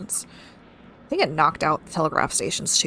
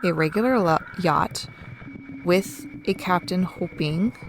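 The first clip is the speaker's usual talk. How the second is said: ominous mystery caller; 3 dB quieter than usual. Acted. Mysterious figure echoes keeper ominously.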